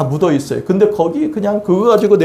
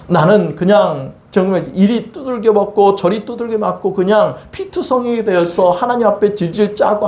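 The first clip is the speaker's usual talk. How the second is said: ordinary delivery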